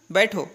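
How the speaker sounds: "बैठो" alone, with a falling end; बैठो set apart after a pause. Shown as a demonstration. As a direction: say बैठो as its own command after the break. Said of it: "इस प्रकार से". ("बैठो" अलग से, विराम के बाद)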